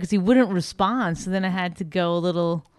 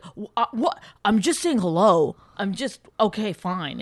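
defensive; 3 semitones higher than usual. Retold or imitated. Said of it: "he got so defensive".

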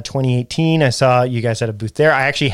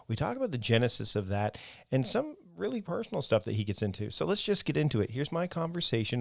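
softer scripted host introduction; podcast intro; 3 semitones lower, 14 dB quieter than usual. Real, not acted. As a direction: introduce the guest in a quieter host read.

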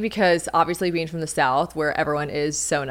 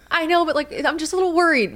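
higher, anxious people pleaser; worried, high voice; 11 semitones higher than usual. Retold or imitated. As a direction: squeak it out, sheepish and worried. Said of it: "And I was like".

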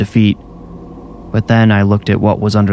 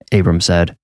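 ordinary delivery

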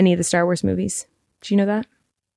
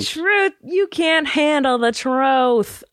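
slow dramatic movie line; 4 semitones higher, much slower than usual. Pretend. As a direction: drag it out slowly like a courtroom climax.

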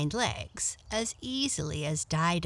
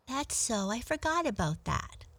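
lightly voiced higher rabbit; friendly little rabbit; 5 semitones higher than usual. Rabbit answering the cat, higher and mild.

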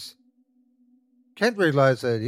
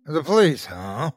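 put-on a gruff old man grumbles, a bit louder; gruff old man grumbling; 4 semitones higher, 3 dB louder than usual. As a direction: grumble it like a grouchy old-timer. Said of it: "a gruff old man grumbled".

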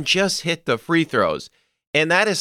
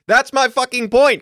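much higher and louder, fed up; exasperated outburst; 10 semitones higher, 4 dB louder than usual. Real, not acted. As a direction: snap back at the critic, fed up. Exasperated rebuttal to imagined critic.

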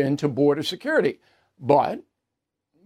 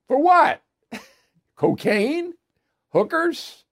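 laughing; 11 semitones higher, slower than usual. Real, not acted. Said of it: "I mean, I'm laughing".

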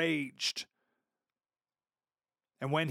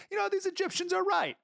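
vain king. Retold or imitated. Proud king mocking himself.

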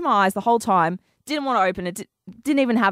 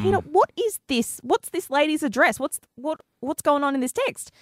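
higher-pitched questioning of a partner, mildly cross; retold annoyance; 5 semitones higher than usual. Host questions boyfriend about the text, retold annoyance. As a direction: demand an explanation, acted out. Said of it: "list of names I was angry at".

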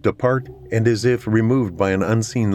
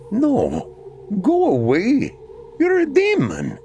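frightened; 12 semitones higher, slower than usual. A narrator's reading. Terrified brother rejects ghost.

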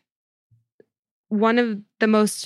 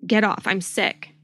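mild mock distress; 3 semitones higher than usual. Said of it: "labored breathing".

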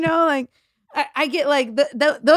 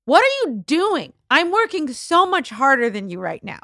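exasperated; 4 semitones higher than usual. Retold or imitated. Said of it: "and you're like".

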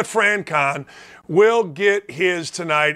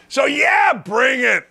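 defiant shout; 6 semitones higher, slower than usual. Real, not acted. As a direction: throw down the challenge. Defiant challenge to critics.

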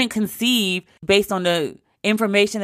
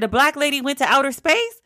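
higher, rising incredulous question; incredulous mom; 6 semitones higher than usual. Retold or imitated. Mom doubting her daughter's story, in rising disbelief. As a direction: she can't believe what she hears.

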